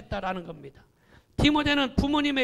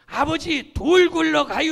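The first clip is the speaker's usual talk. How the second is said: Chungcheong slow speech; 6 semitones higher, 10 dB louder than usual. Retold or imitated. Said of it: "충청도 사람들은 말이 느리다".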